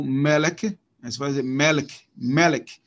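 "melek" stressed on its first syllable, ME-lek. Shown as a demonstration. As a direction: put the weight on the ME of "melek". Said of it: "uma acentuação aqui".

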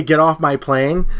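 quoted line. Retold or imitated. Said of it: "I won't necessarily say".

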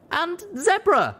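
high, slow shouted addendum; high drawn-out call; added shout. Acted. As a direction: call out the one you forgot. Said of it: "I added".

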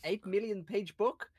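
calling out. Acted. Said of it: "I'll call out".

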